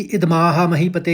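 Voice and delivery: इद माह महीपते run together quickly; rushed reading. Shown as a demonstration. Teacher shows the wrong, rushed reading. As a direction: hurry through इद माह महीपते. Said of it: "एकदम नहीं पढ़ेंगे".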